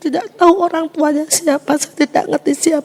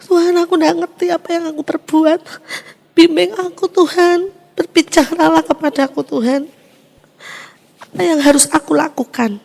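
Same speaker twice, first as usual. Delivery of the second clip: pleading prayer; 4 semitones higher than usual. Retold or imitated. Prayer to God retold.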